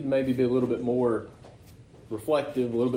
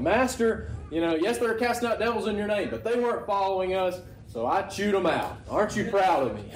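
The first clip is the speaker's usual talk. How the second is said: higher, lightly hammed-up boastful disciple; mock bragging; 5 semitones higher than usual. John boasting to Jesus about chewing men out, mock-bragging higher. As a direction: play the proud kid fishing for praise. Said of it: "he's kinda bragging about it".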